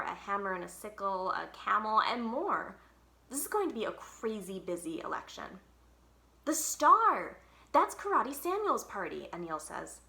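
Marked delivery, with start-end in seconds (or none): 6.5-9.3 excited shout. Acted. Anil excited spotting poster.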